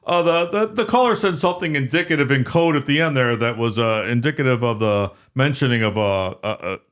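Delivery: imitated sportscaster, starting high then faltering over his words; Al Michaels. Sportscaster tipping off the anchor on air, halting mock broadcast voice. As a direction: hem and haw as a broadcaster explaining delicately. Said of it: "And Al Michaels, who was".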